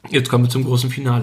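chewing while talking; mouth full. Real, not acted. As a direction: speak through a bite of food. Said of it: "mit vollem Mund sprechen".

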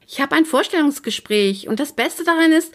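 high-pitched, bubbling excitement; thrilled, voice jumping up; excited news. A narrator's reading. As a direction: burst out with great news. Bursting with news of interview.

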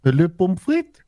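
a hint of a Russian accent; lightly put-on Russian accent. Shown as a demonstration. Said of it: "mein russischer Akzent".

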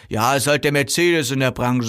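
a touch dismissive, slightly put-on voice; dismissive seller. Seller to customer who finds it expensive, dismissive. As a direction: brush off the objection. Seller brushes off price objection.

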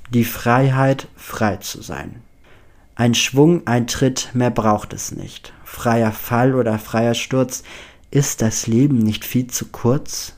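declaimed verse with emphatic, swelling phrases; measured, emphatic recital of a verse; dramatic poem reading. Acted. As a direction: read it out like a solemn poem. Reads out a poem found on paper.

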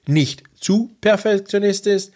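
"nicht" and "zu" each set apart before "perfektionistisch"; stress on NICHT ZU. Shown as a demonstration. Coach clarifying the advice for listeners, stress on "nicht zu". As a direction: spell out the caveat, leaning on "nicht ... zu". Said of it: "die Betonung auf".

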